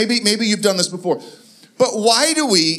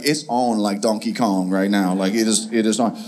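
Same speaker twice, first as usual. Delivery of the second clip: mock challenge; 12 semitones lower than usual. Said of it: "he's looking at me like".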